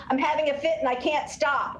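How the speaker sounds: fake-cry like a toddler mid-fit; a kid hamming up a crying fit; mock crying kid.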